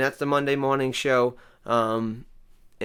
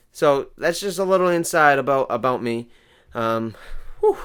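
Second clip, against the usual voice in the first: slightly winded after moving; out of breath. Real, not acted. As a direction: talk a little out of breath. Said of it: "a little out of breath there".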